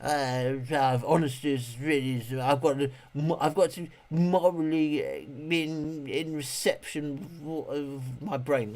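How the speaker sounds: a hint of preachy self-righteousness; mock pious refusal. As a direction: parody the goody-goody answer. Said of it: "people out saying".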